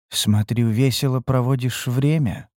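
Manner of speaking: insinuating voice. Acted. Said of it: "вкрадчивый голос из темноты".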